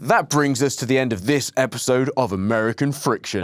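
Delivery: firm, convinced show sign-off; with conviction. Shown as a demonstration. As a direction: redo the outro like you mean it. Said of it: "Said it with much more conviction there".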